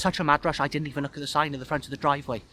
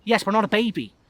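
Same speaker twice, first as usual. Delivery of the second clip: loud, higher mock indignation; fake protest; 7 semitones higher, 5 dB louder than usual. A narrator's reading. Guest joking with waiter about children's table, mock protest. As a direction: protest jokingly, pushing the pitch up. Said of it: "I demonstrate a fake protest".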